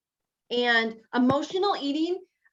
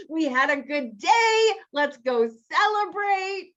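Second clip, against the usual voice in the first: higher, cheery let's-party voice; mock celebrating; 5 semitones higher, 3 dB louder than usual. Coach voicing someone after a good day, mock excited celebrating. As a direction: sell the urge to go treat yourself.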